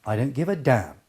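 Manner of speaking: "damn" as the falling key word; stress on DAMN. Shown as a demonstration. Coach answering what he doesn't give, stressing "damn". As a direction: lead straight to "damn" and land on it. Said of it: "most important part of that sentence is a damn".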